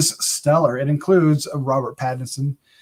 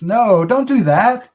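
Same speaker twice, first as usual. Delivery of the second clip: mock scolding; 4 semitones higher, 3 dB louder than usual. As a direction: scold them playfully, stretching the words. Mock scolding about using real spiders.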